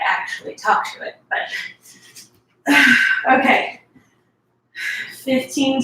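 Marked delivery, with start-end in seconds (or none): 2.8-3.3 heavy breathy exhale; sigh. Real, not acted. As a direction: let out a quick, forceful sigh. Exerciser breathing between explanations.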